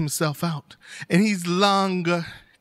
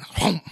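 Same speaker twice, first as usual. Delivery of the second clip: single hollow chomp; quick gulping noise; imitated snake gulp. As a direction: swallow it whole in one sound.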